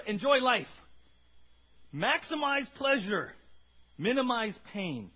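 slow, loud, drawn-out slogan; Epicurean mantra. Retold or imitated. Preacher voicing the Epicureans' creed, slow and loud. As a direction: proclaim it like a party motto. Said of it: "their mantra".

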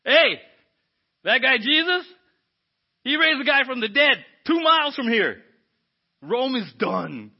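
loud, thrilled gossip; excited crowd. Retold or imitated. Crowd member tells others about Jesus, loud and thrilled. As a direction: buzz with excitement about the miracle. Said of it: "this crowd's excited".

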